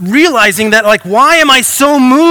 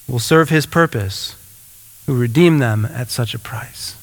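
devotional reading. Acted. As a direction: read it gently like a devotional. Reads devotional passage aloud.

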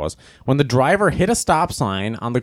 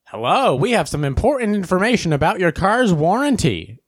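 high-pitched, singsong telemarketer pitch; scam-call recording; 6 semitones higher than usual. Retold or imitated. Warranty scam call playing in the car, mock recorded pitch. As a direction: imitate a chirpy recorded sales call.

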